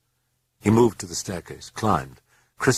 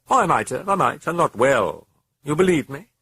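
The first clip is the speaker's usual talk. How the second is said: high, fast, louder sneer; gleeful mocking demon; 9 semitones higher, 5 dB louder than usual. The demon mocking the priest Carus, high and gleeful. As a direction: taunt him like a delighted fiend.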